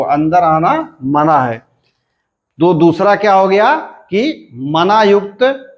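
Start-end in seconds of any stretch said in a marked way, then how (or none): 0.0-1.7 "अंदर आना" lifted, "मना है" falling to the end; prohibition tune. Shown as a demonstration. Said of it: "है का एक हो".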